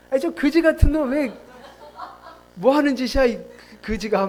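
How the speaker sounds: hammed-up irritated contempt; mock scorn. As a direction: act out exaggerated disdain for someone. Acting out a scornful beggar.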